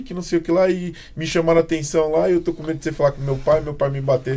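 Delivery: high, fast frightened pleading; scared child. Retold or imitated. Neighbour child begging not to be told on, high and scared. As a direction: blurt it out fast, afraid. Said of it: "a criança já vem falando".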